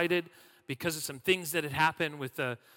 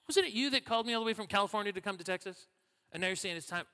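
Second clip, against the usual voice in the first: mock offended; 5 semitones higher, faster than usual. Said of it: "It was a little bit like that".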